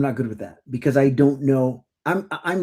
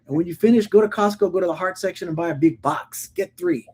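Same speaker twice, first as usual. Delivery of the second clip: sarcastic retort; 6 semitones higher than usual. Retold or imitated. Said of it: "And I was like".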